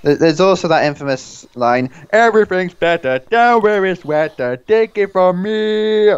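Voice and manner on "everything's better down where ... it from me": put-on weak Jamaican accent, slow at end; lightly put-on Jamaican accent. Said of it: "you trying to do a Jamaican accent there?".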